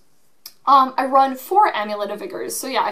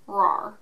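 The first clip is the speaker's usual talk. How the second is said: mock angry roar; 3 semitones lower than usual. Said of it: "very angry".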